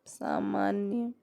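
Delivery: सामान्य whispered slowly; teacher whispering सामान्य while writing; whispered repeat. Shown as a demonstration. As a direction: breathe सामान्य again quietly for the board. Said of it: "अ, तो सामान्य".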